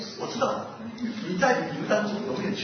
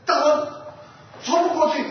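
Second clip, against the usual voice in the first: raised voice, pitch and volume up; shouting to the king; 5 semitones higher, 4 dB louder than usual. Acted. Animals yelling to their king that they cannot break through. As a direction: call out loudly to the lion king in alarm. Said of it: "他们就大声喊".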